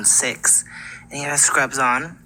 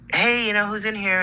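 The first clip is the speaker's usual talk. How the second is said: higher-pitched call into a room; retold calling out; 7 semitones higher than usual. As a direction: imitate checking if someone's there. Nurse calls into dark room.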